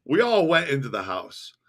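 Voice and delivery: storyteller recounting events step by step; story narration. A narrator's reading. Host reads a book to listeners, story narration. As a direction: read the memoir aloud in measured phrases.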